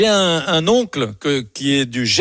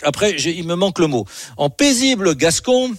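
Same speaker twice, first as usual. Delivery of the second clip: Gascon accent, imitating uncle. Reading his uncle's poem aloud, Gascon accent. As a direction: recite it as a peaceful Gascon poet would. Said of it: "je vais essayer de le faire comme lui".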